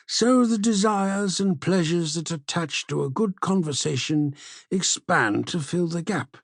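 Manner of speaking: a hint of an old man welcoming a friend; old Cephalus.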